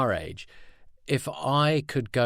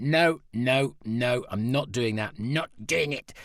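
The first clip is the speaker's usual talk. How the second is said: stubborn refusal; 2 semitones higher, slower than usual. Retold or imitated. Acts out refusing friends' advice.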